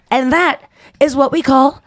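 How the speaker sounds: mock proud drunk sign-off; smug drunk. Rachel ending her message to Ross, smug and slow. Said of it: "she goes".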